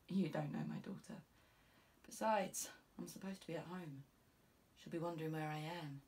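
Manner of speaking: lightly voiced tired detective; weary sergeant. Cupidi, guarded, quieter.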